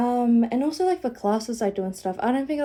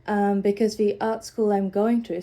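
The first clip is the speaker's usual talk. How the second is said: nasal and out of breath; stuffy, breathless nasal cold voice. Real, not acted. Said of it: "sorry, I feel far out, really nasally, really out of breath".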